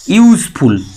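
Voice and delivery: यूज़फुल pronounced carefully for the class; spelling out useful. Shown as a demonstration. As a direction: stretch यूज़फुल with a clear "you" start. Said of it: "जैसे कि".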